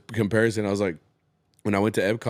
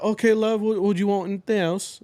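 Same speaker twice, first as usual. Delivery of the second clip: a light British lilt on okay, love, pitched up; lightly voiced British server, a bit higher; British server's accent; 8 semitones higher than usual. British waitress asking a customer what else, lightly voiced. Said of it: "she's like".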